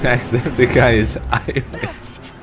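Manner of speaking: slow, loud mock Irish accent; hammed-up Irish accent. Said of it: "Not Scottish".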